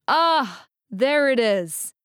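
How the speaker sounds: high, slow, pleased sigh of satisfaction; delighted. Acted. He relishes hearing her British word, delighted. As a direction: savour it like a treat.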